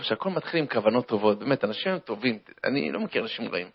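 ordinary delivery

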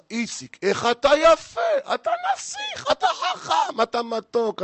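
very high, hammed-up squeals of admiration; gushing flattering friend. Friend greeting Itzik at work, high-pitched mock gushing. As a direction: coo and squeal compliments in mock adoration. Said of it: "יש חבר אחד, רק רואה אותך".

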